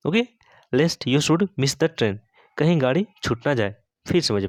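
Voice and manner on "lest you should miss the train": slow dictation. Shown as a demonstration. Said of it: "teacher models English sentence slowly".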